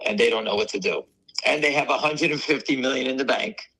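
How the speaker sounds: ordinary talk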